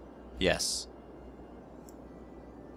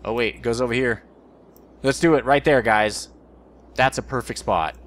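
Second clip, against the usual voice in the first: excited; 2 semitones higher, 5 dB louder than usual. Real, not acted. Excited placing a road.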